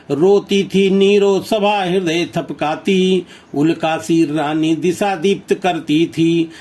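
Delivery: rhythmic, declaimed verse reading; reading a stanza of verse aloud to the class; poem recitation. Shown as a demonstration. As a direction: recite the stanza with a steady poetic lilt.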